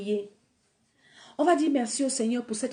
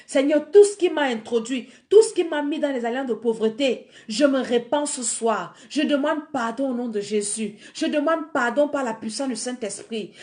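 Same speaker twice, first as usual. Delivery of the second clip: earnest spoken prayer, louder at first; 3 dB louder than usual. Acted. Preacher leading the congregation in repentance, earnest. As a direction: pray it aloud for them to repeat.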